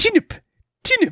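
put-on very high toddler baby-talk voice. Telling a family story about his first words, imitating a toddler's first word. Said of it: "And he'd always be".

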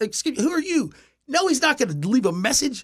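put-on high-pitched yell. Retelling a girlfriend confronting a fan: imitating girlfriend yelling. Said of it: "my girlfriend at the time's trying to yell at me".

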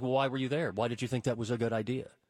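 put-on scolding voice. Retelling how the speaker's mom would scold: imitating mom berating. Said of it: "berating me for doing something that crazy".

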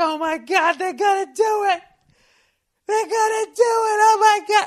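put-on girlish, very high, shrill, loud excited freak-out shriek. Retelling the final minutes of the team's win: retelling own scream like a little girl. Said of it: "I screamed like a little girl".

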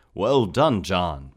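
booming, very loud, thrilled, excited exclamation. A man congratulates someone on their first successful weaving, exclaiming excitedly. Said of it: "Phineas exclaimed".

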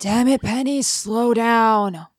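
scratchy, breathy delivery. A character calls after a companion to slow down, in a breathy, scratchy voice. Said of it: "That voice is so breathy".

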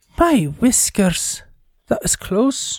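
attempted put-on Irish accent, pitched high, not quite landing. Voicing a stumbling, peasant-dressed character in the game, in a put-on Irish accent. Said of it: "I was trying to go for an Irish accent".

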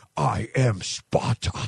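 hard, heroic, very badass tough-guy voice. Retelling a son's reaction to a game commercial: imitating a very badass voice. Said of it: "Jacob does in this very badass voice".

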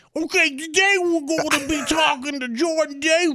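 announcer-style delivery pitched way up high. Imitating a TV host introducing a guest: Tracy Morgan impression. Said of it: "he would be like".

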